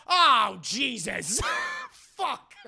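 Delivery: loud, hammed-up cry of dismay; acted horrified outcry. Leia learning that she is the sister, aghast. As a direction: cry out in comic horror.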